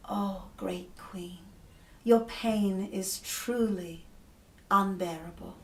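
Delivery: slow, starting in a whisper, gently mirroring. Acted. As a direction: soothe her by echoing slowly. Creatures mirror her pain.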